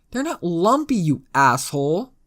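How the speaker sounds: high, loud indignant outburst; indignant insult. Acted. Pinned girl sets her captor straight, loud and indignant. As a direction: jump up in pitch and snap it back loudly.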